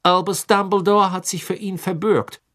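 cold, loud official tone; stern judge; cool and stern. A narrator's reading. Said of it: "sagte Crouch kühl". (kühl und streng)

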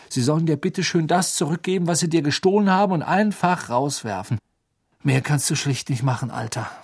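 lightly voiced teen boy, brisk and flippant; Ron, offhand advice. Ron telling Harry to ask the merpeople, flippant.

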